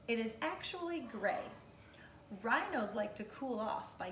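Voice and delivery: measured, expressive picture-book narration. Real, not acted. Teacher reading an animal book to kindergartners, expressive read-aloud.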